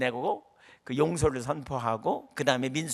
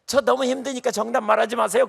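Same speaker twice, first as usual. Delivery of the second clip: imitating tearful plea; 8 semitones higher, 7 dB louder than usual. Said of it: "막 울으면서 뭐라 그러냐면 이렇게 말해요".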